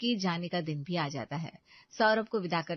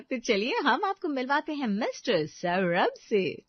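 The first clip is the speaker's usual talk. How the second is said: showy introduction; 6 semitones higher, 4 dB louder than usual. A narrator's reading. Narrator introduces the hero.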